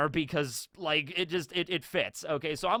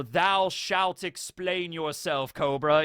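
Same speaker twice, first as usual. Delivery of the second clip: archaic ruler; slower than usual. Retold or imitated. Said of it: "that sort of kind of verbiage".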